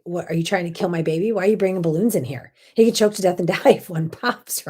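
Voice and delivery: fast, half-hammed frantic outburst; mock panic rant. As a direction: rattle it off like a panicked new mother. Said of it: "I lost my mind".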